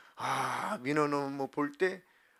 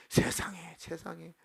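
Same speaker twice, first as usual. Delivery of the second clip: amazed whisper; 3 semitones higher, 3 dB quieter, slower than usual. Acted. Amazed prayer of thanks.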